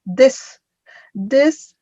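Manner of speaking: "This" as a separate first syllable, rising; pronunciation model. Shown as a demonstration. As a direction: isolate "this" as the start of describe, lifting it. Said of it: "the pronunciation is".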